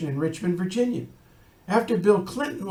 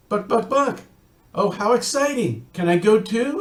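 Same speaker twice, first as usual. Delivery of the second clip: higher clucking, eager to tag along; excited clucking hen; 4 semitones higher, 3 dB louder than usual. Acted. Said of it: "Henny Penny said".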